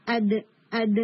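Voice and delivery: اد with a short echoing bounce after the d; qalqalah on daal. Shown as a demonstration. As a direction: strike اد once and let it spring back. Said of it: "جب یہ ساکن ہوتا ہے تو اس کے اوپر کلکلہ".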